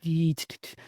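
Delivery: imitating an old rotary phone dialing; rotary dial clicks. Telling how old rotary phones dialed, imitating the beeps. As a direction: tap out the dial noise as quick beeps. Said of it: "the ones where you'd go".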